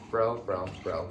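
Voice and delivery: even, unhurried repeated bro; a mild imitation of a friend calling out flatly; steady monotone, no urgency; calm monotone. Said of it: "Then, in that same monotone".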